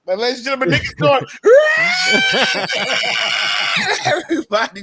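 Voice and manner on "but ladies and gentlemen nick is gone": mock announcement.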